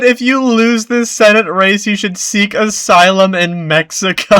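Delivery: high, loud mock impression of a pundit; hammed-up TV host. Retelling Jesse Watters' quote, mocking.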